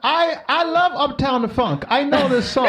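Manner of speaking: high, slow mock Eastern European accent, hammed up; sing-song put-on Eastern European voice, playing a singer's friend. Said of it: "you keep giving them this Eastern European type accent".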